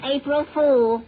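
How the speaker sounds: loud, drawn-out gotcha; triumphant stretched-out tease; gleeful prank reveal. Acted. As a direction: crow it slowly and loudly. Springing a prank on friend.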